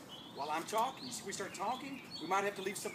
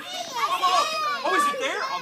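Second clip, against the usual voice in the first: surprised; 10 dB louder, slower than usual. Acted. Magic flower appears.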